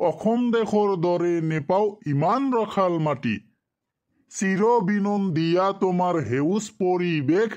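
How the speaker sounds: sing-song classroom poem reading; poem recitation. Shown as a demonstration. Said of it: "এই কবিতাটা আমি তো করে ভালো করে কয়ে দেই".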